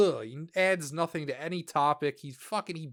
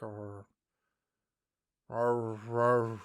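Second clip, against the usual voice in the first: low-energy grumble; 4 semitones lower, 4 dB quieter, much slower than usual. Retold or imitated. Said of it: "a very low energy, just, like".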